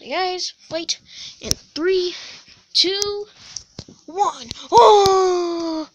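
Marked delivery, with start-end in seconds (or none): 0.0-4.5 countdown call. Acted. Round counter calls the countdown.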